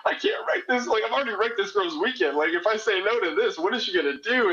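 high, breathy panicked whisper-turned-squeak; panicked inner thoughts. Retold or imitated. Caller reliving his own panic at her request, high and frantic.

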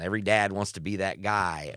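usual speaking voice

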